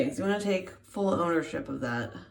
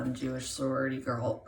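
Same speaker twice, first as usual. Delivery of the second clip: put-on sorority girl voice; 7 semitones lower, 3 dB quieter than usual. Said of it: "I do the most amazing impression of a Jewish sorority girl".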